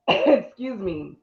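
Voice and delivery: coughing, voice catching; choking up. Real, not acted. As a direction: clear the throat mid-phrase. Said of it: "I'm choking".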